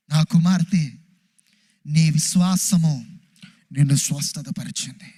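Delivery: Jesus tenderly tells the healed woman she is his daughter; Jesus speaking tenderly. Acted. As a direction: bless her gently as a father would. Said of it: "యేసుప్రభు వారు అన్నారు".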